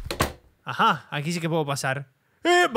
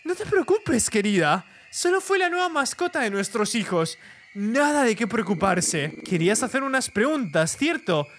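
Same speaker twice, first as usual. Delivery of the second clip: creepy mother; 5 semitones higher than usual. Acted.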